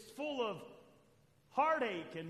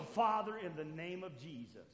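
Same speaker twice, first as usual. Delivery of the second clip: mock fervent prayer with a big shout on Father; loud imitated prayer; 3 semitones lower, 7 dB louder than usual. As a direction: ham up a loud deliverance prayer. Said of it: "what we normally do is we go".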